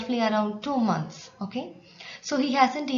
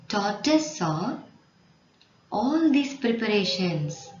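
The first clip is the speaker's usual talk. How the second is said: read-along narration. Shown as a demonstration. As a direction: read it out in short chunks for pupils to follow. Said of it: "Read with me, loudly and energetically".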